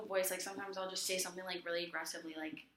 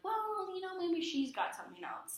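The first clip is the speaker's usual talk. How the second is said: higher, louder gently reasoning friend; voicing a friend; 12 semitones higher, 5 dB louder than usual. Friend easing tension, higher mock-reasonable voice. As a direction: play the friend talking her down kindly.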